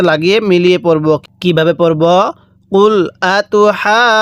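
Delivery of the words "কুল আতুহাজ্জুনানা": "আতুহাজ্জুনানা" with the ha vowel held long, then joined to jeem; four-count madd. Shown as a demonstration. Teacher shows long madd, "আতুহাজ্জুনানা" held long. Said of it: "এরকমভাবে পড়তে হবে".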